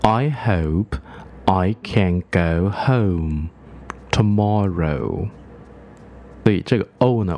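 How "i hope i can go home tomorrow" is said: slow, full vowels. Shown as a demonstration. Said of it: "我们要念得饱满一点".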